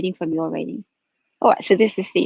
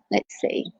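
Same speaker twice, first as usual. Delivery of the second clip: breathy murmur to herself; whispered aside; 8 dB quieter than usual. Real, not acted. Muttering to herself while tuning in.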